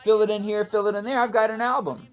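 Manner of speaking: high, loud and giddy; giddy overconfidence about a half-done album; delusionally excited. Retold or imitated. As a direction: younger self, high and loud with glee. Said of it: "I'd be like".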